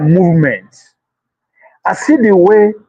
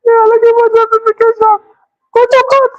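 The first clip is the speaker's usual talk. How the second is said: mocking high voice. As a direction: parody them in a squeaky put-on voice. Mocks those seeking justice.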